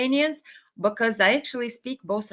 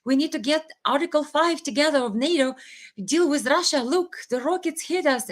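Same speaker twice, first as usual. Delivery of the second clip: mock screaming; 6 semitones higher than usual. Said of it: "started screaming".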